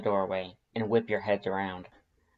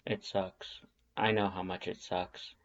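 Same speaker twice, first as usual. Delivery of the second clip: low mutter; 3 semitones lower, 7 dB quieter than usual. Acted. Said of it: "he mutters".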